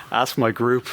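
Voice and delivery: talking through a laugh. Real, not acted. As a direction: laugh while saying it. Teased about his accents.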